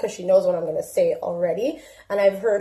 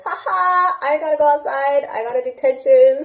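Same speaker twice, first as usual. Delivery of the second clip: put-on higher, bouncy little-girl voice; cheerful daughter; 5 semitones higher than usual. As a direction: gloat it like a happy kid.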